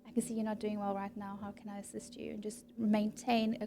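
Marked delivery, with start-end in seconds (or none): 0.0-2.3 gentle. Shown as a demonstration. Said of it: "just to gently say".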